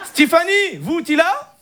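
put-on high-pitched Moroccan Arabic accent. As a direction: pose as French with a thick Moroccan accent. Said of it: "l'accent arabe".

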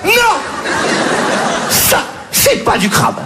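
slow, breathy mock outrage; indignant denial. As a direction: deny it slowly, half-whispered, offended. (démenti indigné, lent et soufflé)

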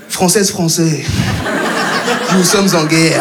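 a hint of a grave, low presidential speech; solemn president address. Comedian mimics a politician's speech to a lover, grave and low. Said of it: "quelqu'un qui me parle mal tout le temps".

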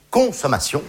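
"consommation" with the opening "con" set apart and punched; stress on first syllable. Shown as a demonstration. Comedian pointing out a hidden word, stress on "con" in "consommation". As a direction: lean hard on the "con" of "consommation". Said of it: "la première syllabe est quand même très claire".

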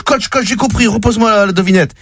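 eager high rush to the coach; blurting it out, thrilled; excited. Retold or imitated. Player running to the coach, excited and high.

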